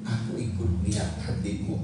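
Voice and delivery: low, sincere pledge; from the heart. Acted. Armor bearer commits himself to Jonathan, from the heart. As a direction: say it low and mean it. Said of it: "Dari hati".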